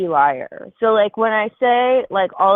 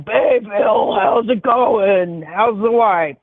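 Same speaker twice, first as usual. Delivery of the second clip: a hint of a hearty old boys' club greeting, slightly louder; glad-handing old business guy; 3 dB louder, much slower than usual. Imitating red-faced old insurance guys, a lightly voiced hearty greeting. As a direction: lightly play a back-slapping golf buddy. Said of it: "red-faced fat white guys that are, you know".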